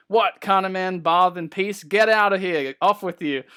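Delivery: a grumpy dwarf shooing intruders from his bath; petulant surly dwarf. Acted. Dwarf in his bath snaps at the main characters, petulant and loud. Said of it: "he's super petulant and surly".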